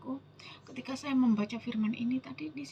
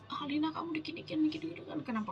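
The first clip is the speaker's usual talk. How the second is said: quick, softer goading voice, lightly acted; devil's whispered taunts; 4 semitones higher, 4 dB quieter, faster than usual. Devil goading Lina into getting angry, lightly imitated whisperer. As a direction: lightly voice a tempter's rapid nagging. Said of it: "Itu suara iblis".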